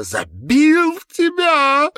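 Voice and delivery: slow, high, loud sobbing outcry; cry out with a sob. Acted. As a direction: let it burst out in a sob. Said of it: "вскрикнула со всхлипом Маловец".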